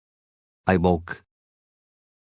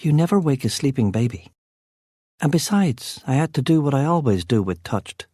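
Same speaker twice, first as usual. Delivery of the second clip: Kit's voice; 5 semitones higher than usual. A narrator's reading. Kit voiced, higher than narrator.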